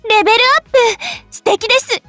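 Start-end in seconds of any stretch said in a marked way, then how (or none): 0.1-0.7 higher, upbeat announcement; delighted cheer. Acted. Game heroine reporting her level up to master, delighted. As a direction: cheer the news in a raised voice.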